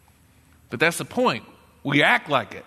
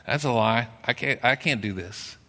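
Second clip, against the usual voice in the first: voiced worrier; 4 semitones lower, 4 dB quieter than usual. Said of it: "And the worrier says".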